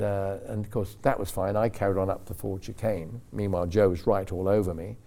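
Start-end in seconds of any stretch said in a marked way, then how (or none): none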